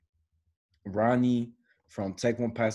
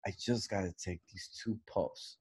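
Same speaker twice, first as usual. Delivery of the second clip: hushed stoner aside; 2 semitones lower, 11 dB quieter than usual. Retold or imitated. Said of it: "He said".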